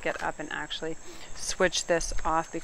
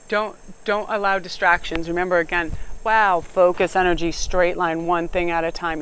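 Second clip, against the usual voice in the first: louder, driving coach's push; emphatic pep talk; 7 dB louder than usual. Real, not acted. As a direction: hammer each word home like a coach. Pep talk against distractions.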